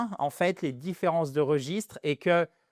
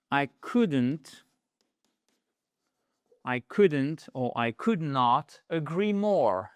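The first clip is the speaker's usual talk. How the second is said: slow enthusiastic agreement; slower than usual. Shown as a demonstration. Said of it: "petit bonus".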